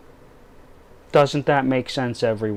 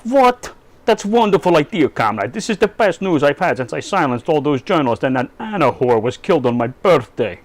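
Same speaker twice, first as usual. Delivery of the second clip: a hammed-up gasp of joy as Putin; mock Putin delight; 2 semitones higher than usual.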